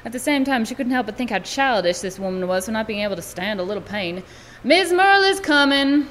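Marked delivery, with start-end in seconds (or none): 4.6-6.1 urgent call. Acted. Girl calls out to mother.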